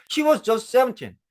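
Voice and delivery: slow, drawn-out "she was just seventeen"; teacher spelling the phrase out slowly; very slow demo. Shown as a demonstration. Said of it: "아시겠죠".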